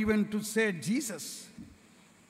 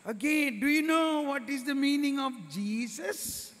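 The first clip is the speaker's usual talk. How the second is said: catechism teacher voice; 5 semitones higher than usual. Acted. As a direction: talk up to little kids like a kind Sunday school teacher. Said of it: "the teacher is asking".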